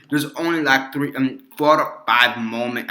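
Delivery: lightly put-on Russian accent; shaky attempt at a Russian accent; Colossus, Russian accent. Reviewer quoting the hero's speech, rough Russian accent. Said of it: "Colossus in his big rush accent says".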